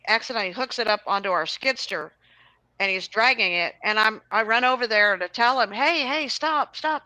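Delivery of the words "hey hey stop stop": raised high call to stop someone. Retold or imitated. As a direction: yell after him to stop. Yelling at man dragging machine.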